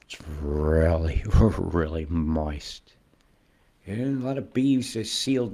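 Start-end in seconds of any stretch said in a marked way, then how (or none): 0.0-2.9 laughing. Real, not acted. Jokes about the word moist.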